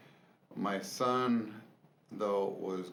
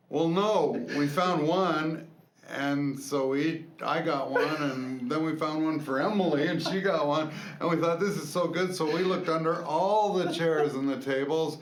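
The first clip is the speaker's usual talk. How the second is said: put-on excited kid; 4 semitones higher, 4 dB louder than usual. Son explaining, high excited.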